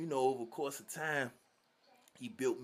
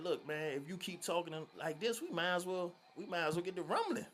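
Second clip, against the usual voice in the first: higher, fast rising warning; threatening challenge; 7 semitones higher than usual. Retold or imitated. The kid warns Croc he wants to fight, quick and rising. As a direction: square up with your words, quick.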